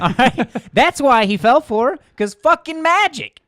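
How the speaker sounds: shouting high and loud, all hyped up; excited shout. Real, not acted. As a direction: yell it like pure magic. Hyped shout about unicorn magic.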